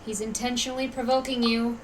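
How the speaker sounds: low, very soft aside; hushed warning. Acted. Onlooker warning Nilu of provocation, hushed. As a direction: warn her under your breath.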